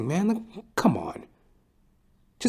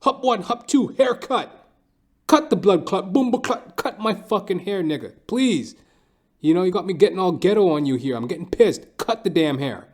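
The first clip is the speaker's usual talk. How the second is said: higher, louder mock rant; a hint of faked anger at the barber; mock ghetto rant; 8 semitones higher, 3 dB louder than usual. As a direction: put on a tough street voice, half joking. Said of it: "I'm like".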